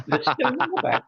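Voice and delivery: high, bewildered question to himself; puzzled surprise. Retold or imitated. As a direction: ask it in disbelief. Puzzled thought while seeing every house.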